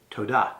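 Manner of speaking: todah with the weight on DAH; accent the last syllable of todah; stress on second syllable. Shown as a demonstration. Teacher gives the Hebrew for thank you, todah stressed on its second syllable. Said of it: "emphasize the second syllable".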